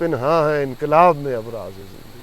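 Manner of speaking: slow, measured verse delivery; stately, stretched-out poetic line; poem recitation. Real, not acted. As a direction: recite Urdu verse, drawing out each phrase.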